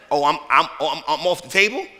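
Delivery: relieved laughter through the words; laughing relief. Acted. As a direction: laugh it out, realizing you're safe. Moses relieved he is spared.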